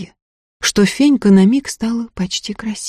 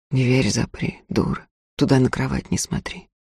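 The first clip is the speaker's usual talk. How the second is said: put-on gruff young man; 5 semitones lower, 7 dB quieter than usual. Man snaps at servant girl.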